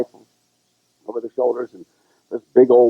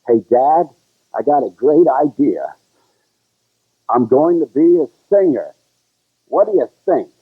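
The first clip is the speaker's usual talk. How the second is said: hopeful son; 4 semitones higher than usual. Pretend. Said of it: "let's pretend you're my dad".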